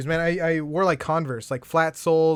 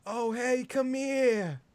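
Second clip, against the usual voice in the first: put-on high, drawn-out old-lady coaxing; put-on old Jewish lady voice; 7 semitones higher, 4 dB quieter, much slower than usual. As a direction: coo it like an old lady wanting a hug. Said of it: "I don't know why she sounds Jewish".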